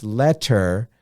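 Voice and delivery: "letter" split into let-ter; syllable by syllable. Shown as a demonstration. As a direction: pronounce "letter" as two distinct beats, let, ter. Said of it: "and we pronounce letter".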